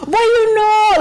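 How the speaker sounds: high put-on Asian accent; hammed-up fake Asian accent; mock Asian accent. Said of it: "I put on my best Asian voice".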